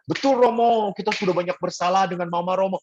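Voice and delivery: high, eager mock child reply; meniru anak retret. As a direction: answer the priest like an earnest kid. Acted child agreeing with priest. (tiruan anak menjawab dengan nada tinggi)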